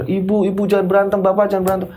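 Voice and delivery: put-on pleading children. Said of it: "Anak-anaknya melerai seperti itu".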